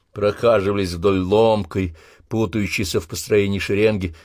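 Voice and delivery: ordinary delivery, nothing marked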